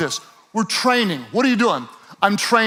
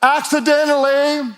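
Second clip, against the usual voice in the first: mock aimless runner; 4 semitones higher than usual. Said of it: "He doesn't say".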